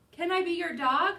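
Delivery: high, loud hopeful plea; eager pleading. Acted. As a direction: beg like an eager puppy. Dog pleading in letter.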